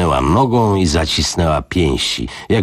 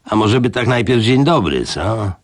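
provoking; 6 semitones higher than usual. Acted. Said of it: "odezwał się Mok zaczepnie".

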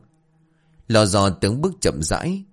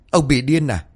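shrill-free but sharp, higher scolding; angry scolding; 4 semitones higher, faster than usual. Acted. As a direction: tear into him for sneaking in. Old woman scolding intruder. (bà Thi mắng ông Sáu giận dữ)

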